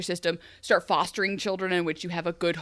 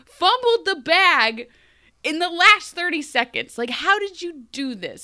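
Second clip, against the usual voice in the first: high, louder, slow disbelief; exasperated; 8 semitones higher, 5 dB louder than usual. Retold or imitated. Scolding Ingrid for blowing it, high and loud. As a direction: drag out the words in disbelief. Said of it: "I'm like".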